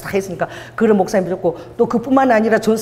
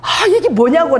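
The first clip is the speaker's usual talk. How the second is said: high-pitched retold outburst at God; exasperated, raised-voice grievance, retold; angry complaint; 8 semitones higher than usual. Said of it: "내가 막 화가 나서".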